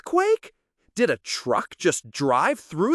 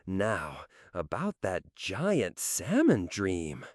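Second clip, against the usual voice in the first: much softer and lower, drifting off; sleepy murmur; 10 semitones lower, 7 dB quieter than usual. Acted. Cat settling back into its salmon dream, soft and sleepy. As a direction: sink back toward sleep.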